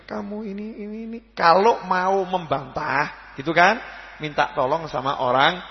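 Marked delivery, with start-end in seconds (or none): 0.1-1.2 high, thin mock scolding of a parent; mock scolding child. Child mocking a scolding parent, high and thin. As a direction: whine it back like a sulky child.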